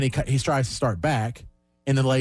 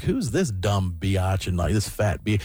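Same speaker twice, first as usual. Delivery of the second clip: slow, lower put-down; a lazy sneering jab; mocking; 5 semitones lower, slower than usual. Comedian mocking the heckler: slow sneer. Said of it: "making fun of her".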